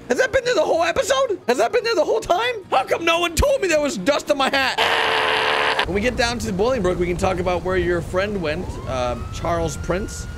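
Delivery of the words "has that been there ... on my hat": high, loud mock indignation; mock outrage. Cop complains to his crew about his dusty hat, hammed-up outrage. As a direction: act theatrically appalled at the dust.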